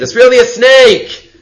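high, loud and slow "It's really a snake!"; excited realization. Retold or imitated. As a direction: land the discovery with a big rise. Sorcerers' sudden conclusion.

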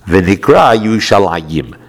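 very slow Hebrew, Yushalayim drawn out; slow recitation. Shown as a demonstration. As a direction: read V'nikra Yushalayim slowly. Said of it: "makes it pronounced Yushalayim".

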